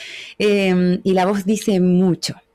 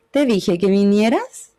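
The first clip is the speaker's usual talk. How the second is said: slow sung-like curve that climbs back up at "vinieras"; melody falls then rises; curving tune; 2 semitones lower, slower than usual. Shown as a demonstration. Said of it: "Como una pregunta".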